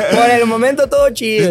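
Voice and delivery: chuckling through the words; amused, laughing it off. Real, not acted. Laughs right before.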